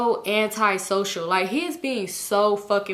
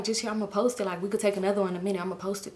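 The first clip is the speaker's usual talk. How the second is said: ciche, ściszone zapewnienie; mówi półgłosem, żeby rodzina nie słyszała; imitated low mumble; 6 dB quieter, faster than usual. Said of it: "he's saying it real low".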